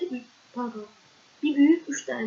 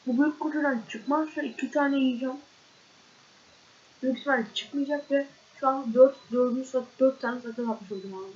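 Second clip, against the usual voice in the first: chewing gum. Real, not acted. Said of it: "Konuşamıyorum".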